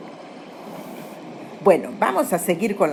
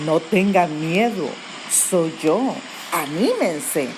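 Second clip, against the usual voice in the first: gentle reassurance; 3 semitones lower, slower than usual. Retold or imitated. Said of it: "Entonces Jesús les dijo".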